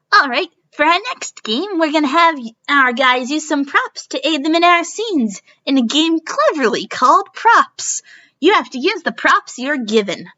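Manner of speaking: game show host. Acted.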